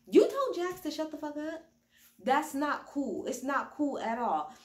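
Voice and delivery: mock stern mother. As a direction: lay down the law for her son. Garcelle scolding Erica.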